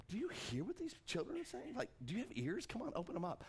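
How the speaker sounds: mocking. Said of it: "They're, they're mocking him".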